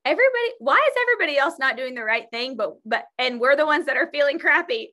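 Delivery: venting to a partner, fast and exasperated; exasperated quote. Retold or imitated. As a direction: rattle it off in frustration. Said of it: "and I said".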